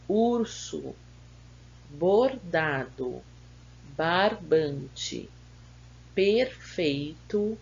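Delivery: answers read slowly, syllables drawn out and separated; measured word list with a pause after each word; slow dictation. Shown as a demonstration. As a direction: dictate each word carefully for pupils to write.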